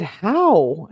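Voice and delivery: exaggerated, swooping disbelief; incredulous question. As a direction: read it as a text full of question marks and exclamations. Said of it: "a ton of question marks and exclamations".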